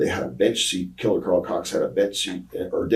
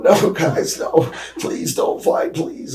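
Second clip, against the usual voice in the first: imitating tearful pleading; 10 semitones higher, 5 dB louder, slower than usual. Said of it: "he's really almost got tears".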